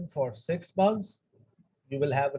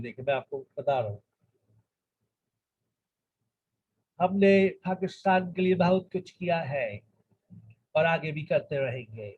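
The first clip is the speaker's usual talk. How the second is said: English-tinged Urdu, rushed and clipped like a foreign-raised speaker; imitating Bilawal Bhutto; much faster than usual. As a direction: mimic an English-accented Pakistani politician speaking Urdu. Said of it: "कैसा style होता है?". (अंग्रेज़ी लहजे वाली उर्दू की हल्की नकल)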